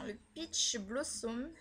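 English product name, slowly, in a French accent. Real, not acted. Vlogger apologising for her accent before an English shade name, French-accented English. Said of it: "excusez-moi pour mon accent".

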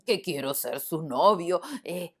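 lightly voiced lion, slow and hesitant; shy lion musing. Lion to himself about the lioness, slow shy musing. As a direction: ponder it slowly, a bit lovestruck.

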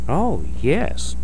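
high-pitched little mole voice; Papa Mole. Acted. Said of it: "said Papa Mole".

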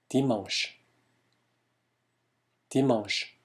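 dimanche with nasal "an" leaning toward "uh"; French pronunciation demo. Shown as a demonstration. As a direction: model dimanche as "dee-mahng-sh". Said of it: "멍이 약간 어에 가까운 발음에".

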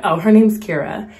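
a smooth, easy hint of mom. Mom smoothly answering the actor for her shy daughter. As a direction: slide it out casually, no push. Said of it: "She's more smooth than that".

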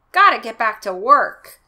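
hushed whisper, secretive. Acted. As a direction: whisper it like sneaking away. Unvoiced whispered line.

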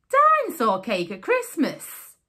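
squeaky mouse. Acted. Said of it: "squeaked Mister Mouse".

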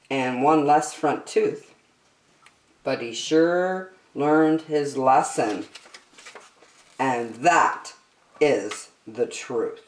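put-on lively storybook reading for kids; story narration. A narrator's reading. The speaker reading a rhyming story to young listeners, animated storybook voice. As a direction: read it like a bedtime picture book, bouncy rhymes. Reads picture book to children.

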